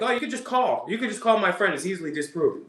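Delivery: high, sarcastic caught-out excuse; mock excuse. Host parodying Mike's logic as a caught man's excuse.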